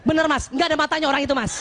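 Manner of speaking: fast, laughing agreement of a wife backing her husband; supportive wife. Acted. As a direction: hurry to side with him, half laughing. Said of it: "Ibu support suami". (istri cepat mengiyakan sambil tertawa)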